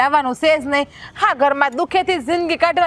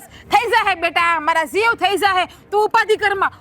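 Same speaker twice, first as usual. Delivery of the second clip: mocking husband. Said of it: "બસ રોજ ઉઠીને એક જ".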